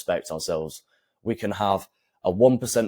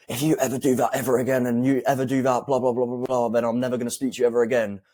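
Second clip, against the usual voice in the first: higher, fast, gushing threat; mock emotional rant; 4 semitones higher, faster than usual. Shown as a demonstration. Coach mocking a weak threat to girlfriend, higher and fast. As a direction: rush it out all worked up and pathetic. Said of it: "I say it with loads of emotion, I say it really quick".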